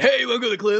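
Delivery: lightly hammed fifties movie line; stilted old movie melodrama. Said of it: "Except it's, like, two dudes".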